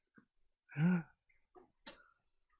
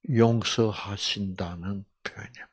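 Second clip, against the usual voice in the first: soft whisper; 4 semitones lower, 6 dB quieter than usual. Real, not acted. Preacher explains forgiveness to the congregation, whispering. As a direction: say it as a hushed secret.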